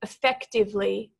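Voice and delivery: "Effectively" in careful syllables, stressed on FEC; walk through "Effectively" carefully, second syllable strongest. Shown as a demonstration. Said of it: "emphasis is on the second syllable".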